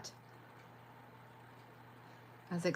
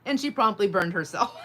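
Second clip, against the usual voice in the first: laughing; 2 semitones higher, 6 dB louder than usual. Real, not acted. Laughing at viewer's burn story.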